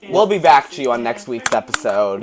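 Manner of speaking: hammed-up episode outro; mock host sign-off.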